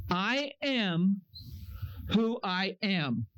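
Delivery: low, slow solemn pronouncement; a hint of a deep divine voice; God's voice. Voicing God's answer.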